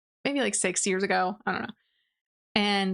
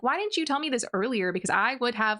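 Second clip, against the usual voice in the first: pissed off; 3 semitones higher, faster than usual. Retold or imitated. Aaron confronts Sylvia for not telling him, mildly pissed. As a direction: imitate an annoyed man's rushed protest. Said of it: "Aaron's pissed".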